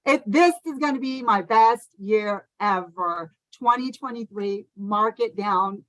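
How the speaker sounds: heartfelt. Real, not acted. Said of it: "say it and feel it in your heart".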